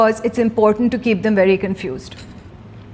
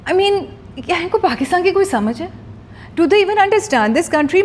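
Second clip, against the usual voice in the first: mock outrage; 7 semitones higher, much faster than usual.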